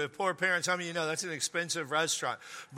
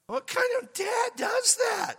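incredulous shout; slower than usual. Acted. Asking the congregation in disbelief, slow high shout. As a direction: demand it in disbelief. Indignant rhetorical question.

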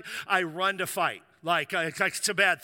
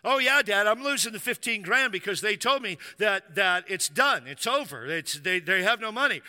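skeptical retort; 3 semitones higher, 4 dB louder than usual. Retold or imitated. Son retorting to his dad.

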